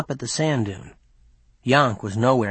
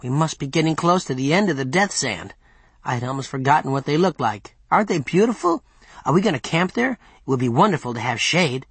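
eager chattering servant. Acted. Yonk seeing trees near the end of the death sand, mildly delighted chatter.

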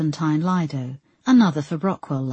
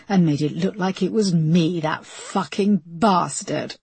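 anguished outburst; 2 semitones higher, 4 dB louder than usual. A narrator's reading. Linda accuses her brother to Peterson, anguished and furious. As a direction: pitch leaping, voice cracking with rage.

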